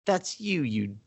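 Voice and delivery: mock British scolding, starting high; hammed-up British accent, pitch dropping to the insult. Imitating a film character's put-down, British accent. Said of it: "That's a British accent, everyone".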